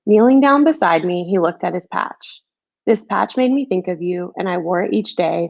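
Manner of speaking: put-on gentle rhyming storybook read, like to a child; reading a picture book. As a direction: read it like a bedtime story for kids. Author reads her picture book aloud.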